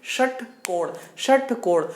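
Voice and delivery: "षटकोण" with tongue reaching up to the palate's ridge; retroflex sha. Shown as a demonstration. Teacher asking students to try it, retroflex sha in "षटकोण". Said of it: "तो षटकोण बोल करके देखिए".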